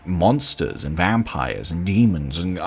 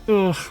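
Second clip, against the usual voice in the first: short groan of disappointment; a recalled "ugh" of doubt; retold unimpressed ugh; 13 semitones higher, 3 dB louder than usual. Reviewer recalling first reaction to the game, unimpressed groan. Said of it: "I was like".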